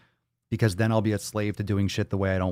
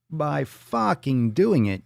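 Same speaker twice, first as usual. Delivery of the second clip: higher, louder, slow and punched; emphatic answer; 6 semitones higher, much slower than usual. Acted. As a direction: hammer the answer home. Second take, louder.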